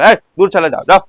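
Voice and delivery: mock scolding, shooing someone away; lightly acted rebuke in short, repeated bursts; scolding dismissal. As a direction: shoo off a begging child with a mild scold. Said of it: "छिड़क कर".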